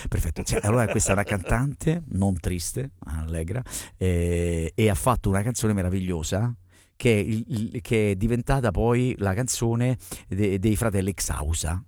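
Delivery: very low, subdued mock voice; mimicking guest's voice. Host presenting the singer while copying her, low mock voice. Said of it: "anch'io adesso parlo così".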